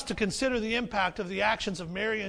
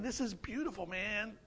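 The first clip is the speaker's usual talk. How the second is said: hushed disciples; 7 dB quieter than usual. Retold or imitated. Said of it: "everybody's kinda looking at him saying".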